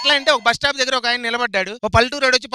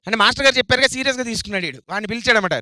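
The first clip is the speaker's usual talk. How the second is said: ordinary delivery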